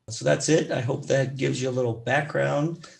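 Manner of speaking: hoarse, raspy speaking voice. Real, not acted. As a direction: talk through a raspy throat. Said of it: "Sorry for my raspy voice".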